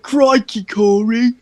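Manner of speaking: put-on Australian exclamation; Australian accent. Podcaster imagining the little sister greeting Corey, mock Australian accent. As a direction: mimic her with a broad Aussie accent. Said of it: "in her Australian accent".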